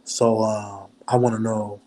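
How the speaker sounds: real deep voice. Shown as a demonstration. Calling Tasha to ask about blocking, in a mock deep voice. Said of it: "I might do my real D voice".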